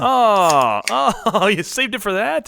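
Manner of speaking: sudden high startled cry with a laugh; startled shout. Real, not acted. Sprayed with a drink, shouting in surprise. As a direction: yelp in real shock, then laugh.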